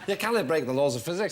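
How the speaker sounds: line in a Scottish accent, Star Trek style. Shown as a demonstration. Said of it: "say that in a Scottish accent".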